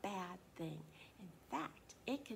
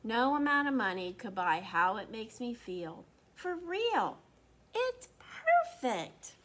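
higher, louder, gushing mother; overjoyed mom; 4 semitones higher, 8 dB louder than usual. Acted. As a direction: gush with joy. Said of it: "she says".

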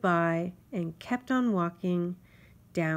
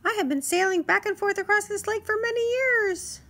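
high, louder self-important insect voice; boastful mosquito; 6 dB louder than usual. Acted. Mosquito boasts to Grasshopper, high and proud. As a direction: brag like a tiny sea captain.

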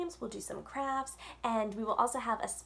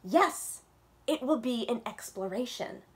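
excited yes; 2 semitones higher, 4 dB louder than usual. Acted. Yasmin jumping up to go to the market with Mama, thrilled. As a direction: leap at the chance. Child jumps up, answers mother.

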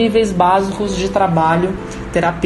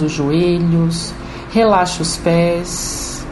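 guided meditation. Acted. Leads a guided chakra meditation.

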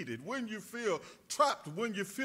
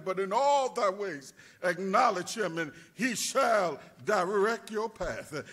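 preached scripture. Acted. Quoting Proverbs, preaching.

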